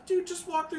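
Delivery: high, loud impatient dude. Acted. GM voices teen.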